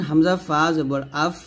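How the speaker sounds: "আফ" with air let out on the f; released air. Shown as a demonstration. Teacher showing learners to release air, airy f. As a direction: let breath flow out at the end of "আফ". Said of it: "বাতাস বের করবেন".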